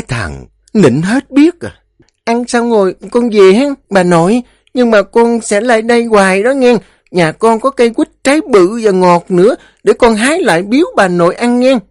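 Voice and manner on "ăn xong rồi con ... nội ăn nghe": put-on high, chatty little-boy voice; child voice, sweet; small boy. A narrator's reading. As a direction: prattle eagerly like a five-year-old.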